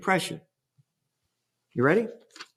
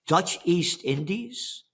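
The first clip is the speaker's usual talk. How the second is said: Dutch East Indies stretched very slowly with a rising tune; mock disbelief at the colonial name; incredulous question; much slower than usual. Shown as a demonstration. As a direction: drag out Dutch East Indies like it makes no sense. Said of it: "What are the Dutch doing in Indonesia?".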